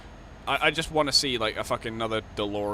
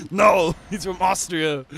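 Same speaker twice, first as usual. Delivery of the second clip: slow loud higher shout; mocking know-it-all; 7 semitones higher, 8 dB louder, slower than usual. Mocking clueless people, slow shouted put-on voice. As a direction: bellow it like a smug know-it-all. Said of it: "says everyone who doesn't know".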